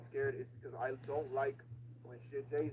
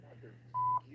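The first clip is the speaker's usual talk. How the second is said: startled yelp; 5 dB louder, much slower than usual. Real, not acted. Sudden jumpscare.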